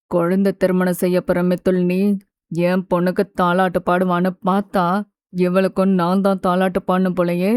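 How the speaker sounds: low, level male grumble; wearily exasperated man. A narrator's reading. Mithul grumbling to himself about childish bride, weary. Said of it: "என சலித்து கொண்டான்".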